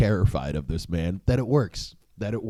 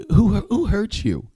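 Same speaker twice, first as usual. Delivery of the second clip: higher, slower put-on boxer voice; Mike Tyson voice; 10 semitones higher, 3 dB louder, slower than usual. Tyson asking Bill Burr who hurt him, in a raised imitation voice. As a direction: mimic the champ gently prying, pitched up. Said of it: "he has that voice".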